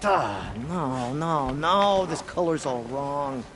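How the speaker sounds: dismayed. Acted. Dye color turned out wrong.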